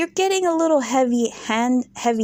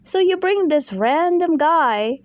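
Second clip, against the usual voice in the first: exasperated rant; 7 semitones higher than usual. Real, not acted. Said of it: "addressing Meredith".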